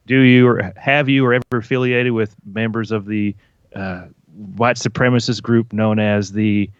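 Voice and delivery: a light Southern drawl in the Watchmen interrogation line; a mild take on the Watchmen character's Southern accent; Tim Blake Nelson Watchmen accent. Retold or imitated. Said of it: "That was a pretty good accent".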